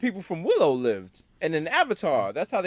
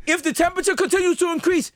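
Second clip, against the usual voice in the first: mock Greta; 10 semitones higher than usual. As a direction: ham up a preachy teen. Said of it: "She was like".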